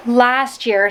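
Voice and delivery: breathless after making the bed; out of breath. Real, not acted. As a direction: speak a little winded. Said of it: "sorry, I'm out of breath".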